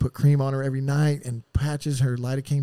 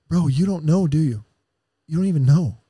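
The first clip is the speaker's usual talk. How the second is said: retold urgent outburst; 3 semitones higher, 7 dB louder than usual. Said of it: "He goes".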